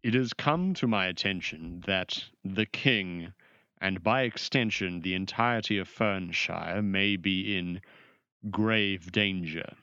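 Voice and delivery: lightly voiced formal mage with weighty pauses; solemn sorcerer. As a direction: announce it gravely, measured, as a proud official. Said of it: "and he goes".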